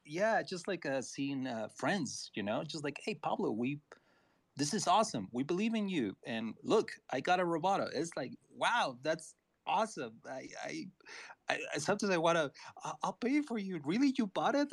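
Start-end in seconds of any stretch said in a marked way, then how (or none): 0.0-7.9 emotional. Real, not acted. Emotional after voice breaking. 8.5-14.7 surprised. Real, not acted. Voicing moved reaction, near tears.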